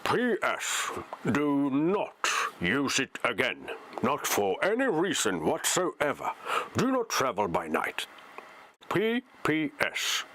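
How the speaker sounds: lightly voiced old wizard, slow and deliberate; Gandalf. Wizard's letter of warning read aloud, lightly voiced Gandalf. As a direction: weigh out the words like a wizard. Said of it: "I'll read that in Gandalf's voice then".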